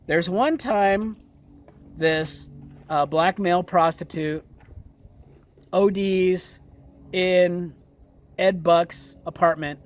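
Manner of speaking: slow, with long pauses between phrases. Shown as a demonstration. Host repeats the story for non-followers, slowly. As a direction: lay it out piece by piece, pausing often. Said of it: "I'm gonna repeat this a little bit slower".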